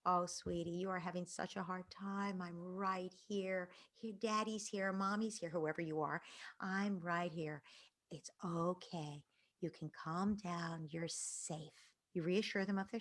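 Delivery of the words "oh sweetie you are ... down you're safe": slow, soft, hushed comfort; soothing a child. Retold or imitated. Scene: parent comforting a four-year-old woken at night, soft and slow. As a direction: ease a scared child back to calm. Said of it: "and you say".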